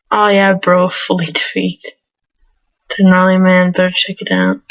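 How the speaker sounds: douchey surfer dude. Acted. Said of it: "this douchey surfer dude voice".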